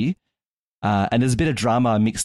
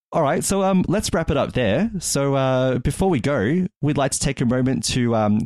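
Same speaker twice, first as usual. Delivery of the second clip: outro read; 3 semitones higher than usual. Acted. Host reads patrons and links to listeners, upbeat. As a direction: read the sponsor thanks brightly, lightly.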